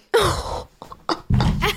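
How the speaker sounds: a breathless, high laugh; airy high laugh. Real, not acted. Laughing at her dad calling her hysterical.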